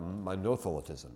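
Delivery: monothelitism stressed as mo-NO-thelitism; stress on second syllable. Shown as a demonstration. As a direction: put the accent on the second O of monothelitism. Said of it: "put the accent on the second syllable".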